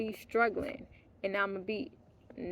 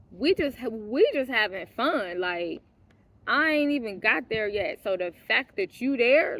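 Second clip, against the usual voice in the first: retold anger; 3 semitones higher, 3 dB louder than usual. Retold quarrel with the guy.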